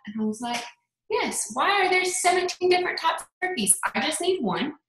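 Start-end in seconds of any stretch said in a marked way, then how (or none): 1.1-4.7 much higher, overwhelmed pitch; mock frustrated plea. Overwhelmed at the turkey aisle, begging a stranger for help. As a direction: retell your helpless turkey-aisle panic. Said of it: "like, frustrated".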